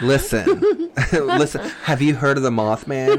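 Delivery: mock college girl, breaking into laughs; put-on college girl voice with giggles. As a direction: play a gossipy college girl. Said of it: "do your college girl voice".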